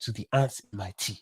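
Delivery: flirt in a mock African accent; imitated smooth talker with an African accent. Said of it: "Because it's the accent".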